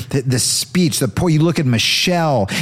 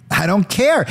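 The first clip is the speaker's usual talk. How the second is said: laughing it out, a bit higher; 6 semitones higher than usual. Acted. Comic insisting he doesn't care, laughing. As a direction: giggle through the repeat.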